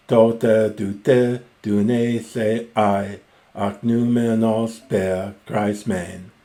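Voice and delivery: slow, measured reading of the Greek verse; Homeric recitation. Acted. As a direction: recite the lines like an epic bard. Rereads the passage aloud.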